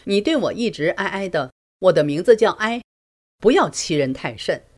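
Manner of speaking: retold husband snapping back in a huff; husband retorting to his wife, mildly angry. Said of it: "气呼呼地反问".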